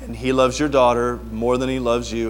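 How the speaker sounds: lightly imitated calm counselor; low, unhurried, reassuring advice; Brother Willett. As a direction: talk him down gently, a touch put on. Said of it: "guys that talk like that".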